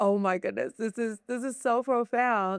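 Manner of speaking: acted near-tears voice. Retelling a butterfly landing on their shoulder, re-enacting being near tears. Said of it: "I'm like almost in tears now".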